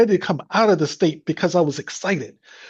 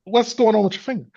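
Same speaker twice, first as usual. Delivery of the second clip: imitating a calmed mother, lightly higher voice; gentle mock-mom question, pitched up without alarm; mom at peace; 8 semitones higher than usual. Son imitating mom later asking about his finger, at peace. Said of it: "you know, at peace".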